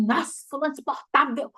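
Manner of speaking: a touch of irritated contempt; scornful complaint. Shown as a demonstration. Preacher mimicking a bitter complaint about someone, mild scorn. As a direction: mildly scoff at the annoying person. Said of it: "você não vai falar assim".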